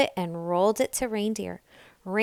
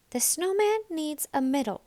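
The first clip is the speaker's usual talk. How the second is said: put-on higher small girl voice; little Nell; 7 semitones higher than usual. A narrator's reading. Little Nell tells the animals what comes next. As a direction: state the plan brightly.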